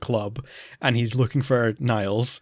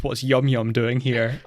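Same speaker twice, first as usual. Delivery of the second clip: laughing quote; slower than usual. Retold or imitated. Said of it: "Kate walks in and says".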